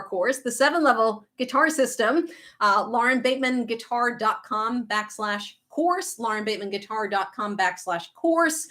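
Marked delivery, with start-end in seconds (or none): none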